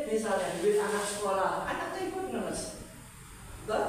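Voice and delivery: usual speaking voice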